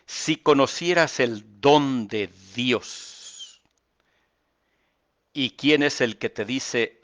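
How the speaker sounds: measured preacher's reading of the text; scripture reading. Acted. Reads scripture slowly.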